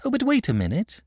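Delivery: put-on high, protesting child's voice; acted little girl pleading; eager cry. A narrator's reading. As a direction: stop someone leaving, urgently. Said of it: "cried Charlotte".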